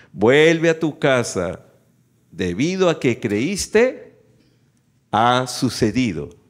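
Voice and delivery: slow, deliberate proclamation with pauses; solemn scripture reading. A narrator's reading. Preacher reading Jesus' words to the officer, slow solemn proclamation. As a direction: weigh out each phrase of the verdict. Reads Bible aloud to congregation.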